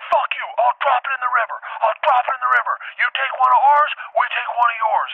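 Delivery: high-pitched, heated standoff; acted angry threat. Man on a tree threatening to drop the baby elephant, acted angry threat. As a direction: hurl it across as a frantic threat. Keanu shouts threats across river.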